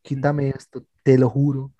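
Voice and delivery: slow mock plea to God, broken by pauses; acted hungover bargaining prayer; believer's prayer. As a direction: swear it solemnly, word by word, dropping low at the end. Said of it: "uno es creyente y uno dice".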